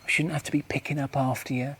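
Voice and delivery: mock a wife's scolding, pitched well up; retold yell in a high complaining voice; imitated yelling wife. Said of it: "She starts yelling at me".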